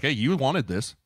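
high-pitched, heated blaming; acted scolding. Coach blaming player who asked for it, acted scolding.

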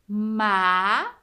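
MA-FAL-DA very slowly, long gaps between syllables; "Ma-fal-da" as three separate, held beats; split into syllables. Shown as a demonstration. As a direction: stretch each syllable of "Ma-fal-da" and pause after it. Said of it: "Uma sílaba, duas sílabas, três sílabas".

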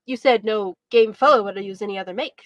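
mildly indignant retort; hotly. Acted. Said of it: "said Tom hotly".

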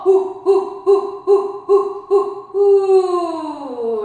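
loud rhythmic panting on hoo; panting like a dog. Shown as a demonstration. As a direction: pant hard like a dog. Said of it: "So pant like a dog".

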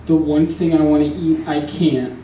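hammed-up grieving vulture; dramatic vulture. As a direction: mourn like a tragic vulture, hammed up. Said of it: "Here's my impression of a very dramatic vulture".

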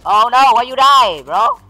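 high, drawn-out lament; loud dismay. Real, not acted. Gamer sees teammate die in the match, loud dismay. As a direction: wail in protest at a lost teammate.

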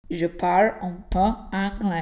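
exaggerated slow French accent on parle; mock French accent. Carlo clowning a French accent for the teacher. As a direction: ham up a French accent to make the class laugh. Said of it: "forse ho capito come pronunciare bene il francese".

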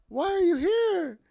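high, loud, drawn-out disbelief; slow, high-pitched astonished question; excited, confused surprise. Retold or imitated. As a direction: imitate a partner's thrilled bewilderment. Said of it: "you could hear, like, her excitement, but confusion".

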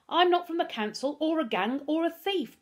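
put-on high, loud boy's denial; crying out. A narrator's reading. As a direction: cry out innocence in desperation. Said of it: "Darkus cried".

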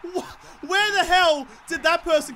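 high laughing disbelief; surprised laughing. Real, not acted. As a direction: laugh out the shock. Surprise tackle from nowhere.

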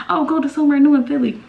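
mock vague request. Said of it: "Don't just say".

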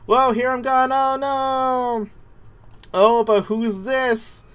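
high goofy cartoon voice; lightly Goofy. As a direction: play it like Goofy surprised. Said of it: "I'm gonna talk like Goofy".

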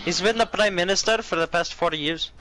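fake Indian accent. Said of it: "my Indian accent".

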